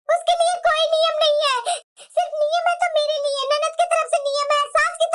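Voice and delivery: a touch of tears while listing the unfair rules; tearful complaint. Acted. Daughter-in-law venting about her in-laws, half crying. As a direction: voice catching between laugh and sob.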